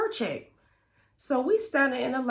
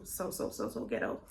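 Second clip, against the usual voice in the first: whispered; 7 dB quieter than usual. Real, not acted. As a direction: drop it to an amused whisper.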